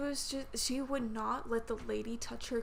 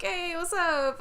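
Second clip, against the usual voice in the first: higher, louder hello; friendly greeting; 7 semitones higher, 6 dB louder, slower than usual. Retold or imitated. Worker greeting regular customers, friendly. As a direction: call out to a familiar regular.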